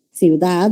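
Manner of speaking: ciudad with a deliberate final D; careful ciudad. Shown as a demonstration. Teacher straining to say the standard form. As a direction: push to say the D in ciudad. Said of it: "Me estoy esforzando para decir ciudad".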